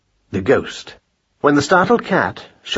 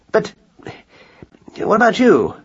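surprised; 9 semitones higher, 3 dB louder than usual. A narrator's reading. Husband protests surprised.

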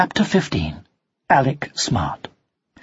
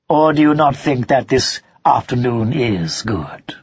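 sharp nasal fox; 4 semitones lower than usual. Acted. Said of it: "a sharp, rather nasal voice".

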